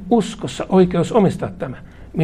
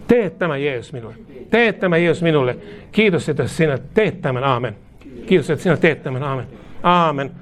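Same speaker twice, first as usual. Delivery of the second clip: prayer declaration. Acted. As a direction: lead the room phrase by phrase in prayer. Leads congregation in repeated declaration. (hidas, juhlallinen rukousjulistus)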